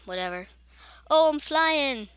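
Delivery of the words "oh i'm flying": high, loud, stretched-out whoop of words; excited shout. Real, not acted. Gamer suddenly flying in the level, excited shout. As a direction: call it out high and long.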